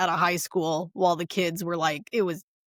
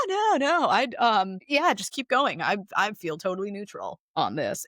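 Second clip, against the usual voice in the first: fake neutral therapist. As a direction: pretend to stay neutral while obviously not. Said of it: "they're just like".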